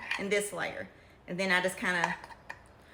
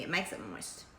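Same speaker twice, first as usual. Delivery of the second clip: moist drawled in a Kentucky accent; 10 semitones lower, 9 dB quieter than usual. Real, not acted. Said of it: "My Kentucky accent".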